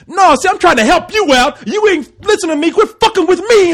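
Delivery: exaggerated Ebonics impression of a pleading husband; mock Ebonics voice.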